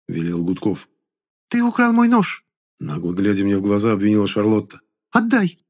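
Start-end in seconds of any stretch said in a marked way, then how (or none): 1.5-2.5 put-on very high, thin girl's voice; shrill girl voice. A narrator's reading. Charlotte's voiced character. 5.1-5.6 put-on very high, thin girl's voice; shrill girl voice. A narrator's reading. Charlotte's voiced character.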